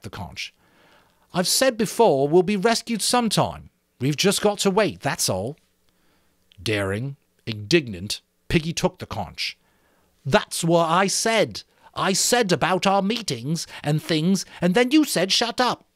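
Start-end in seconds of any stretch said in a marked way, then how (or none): 1.3-5.6 put-on raised boy's voice, steady and firm; Ralph's firm voice. A narrator's reading. Ralph to the boys, firmly insisting. 10.2-15.9 whining Piggy. A narrator's reading. Piggy to Ralph, whining reproach. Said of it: "a whine of virtuous recrimination".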